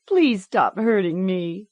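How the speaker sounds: high, slow pleading; begging child. A narrator's reading. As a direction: beg through the pain. Child begging under shocks.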